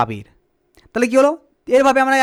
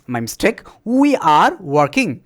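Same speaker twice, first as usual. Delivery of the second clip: slow modelling; 6 semitones lower, much slower than usual. Shown as a demonstration. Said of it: "teacher slowly modelling sentence".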